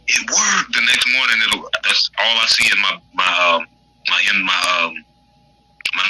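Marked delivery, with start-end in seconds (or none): 0.1-0.7 high, whispery mock astonishment; imitated amazement. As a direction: act out a grateful follower's breathless surprise. Retelling followers' amazed reaction.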